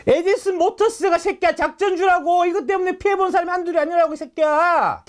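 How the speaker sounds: mock scolding. Scolding the channel directly.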